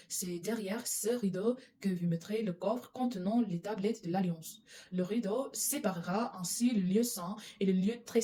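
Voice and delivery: steady, measured Bible reading; scripture reading. Acted. Reading Exodus aloud to viewers, calm measured voice. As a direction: read the passage calmly to listeners.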